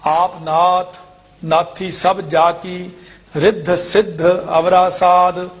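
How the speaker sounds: level, drawn-out chant-like reading; measured scripture recitation. Shown as a demonstration. Teacher reciting verses for students, measured chant-like recitation. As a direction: recite each phrase evenly with pauses.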